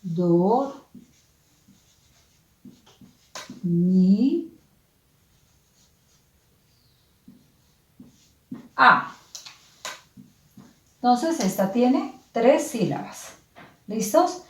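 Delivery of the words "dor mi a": "Dor, mi, a" with very long pauses between syllables; slow syllable split. Shown as a demonstration. Teacher repeating the split slowly for the class. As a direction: draw out the gaps in "Dor, mi, a".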